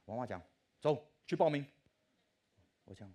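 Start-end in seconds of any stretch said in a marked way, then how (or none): 0.8-1.7 loud, higher call to go; bossy mother voice; mother's urging. Retold or imitated. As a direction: mum hurrying him out the door. Mother urging him to register.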